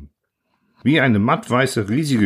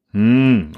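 amused hum; 5 dB louder than usual. A narrator's reading. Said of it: "Onkel Wendel lachte".

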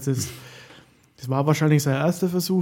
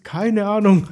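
higher, louder caught-out blurt; 7 semitones higher, 9 dB louder, slower than usual. Acted. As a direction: squeak it like you're busted. Acted scene, caught out. (ertappt, hoch und laut)

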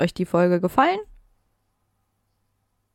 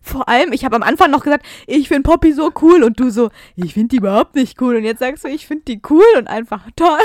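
loud, laughing tease; amused teasing; 3 semitones higher, 8 dB louder than usual. Real, not acted. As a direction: rub it in, grinning. Teasing friend about contradiction. (lachend aufziehend)

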